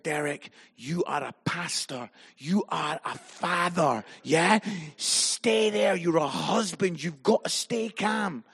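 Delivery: low, measured, reasoning with an angry friend; retold calming plea. Telling Derek, a raging pastor, to stay calm, reasoning and low.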